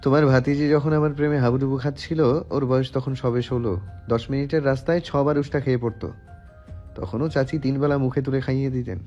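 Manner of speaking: deep, fast, aloof son; detached voice. A narrator's reading. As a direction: rattle it off low and unbothered. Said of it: "উদাস কণ্ঠে". (উদাস নির্বিকার গভীর কণ্ঠ)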